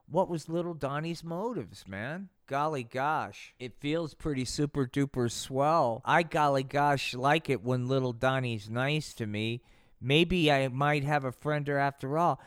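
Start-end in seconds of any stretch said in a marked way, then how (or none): 2.5-12.4 put-on touched, bashful kid; shy kid voice. Kim voiced soft and touched.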